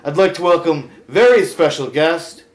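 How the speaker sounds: loud, showy host voice; talk show host. Acted. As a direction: bring on the guest with fanfare.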